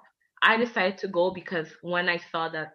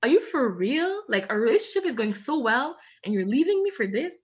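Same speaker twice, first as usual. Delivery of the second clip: higher, incredulous retelling; mock outraged disbelief at the ex; 5 semitones higher than usual. Confronting her ex about leaving, incredulous and higher. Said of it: "I was like".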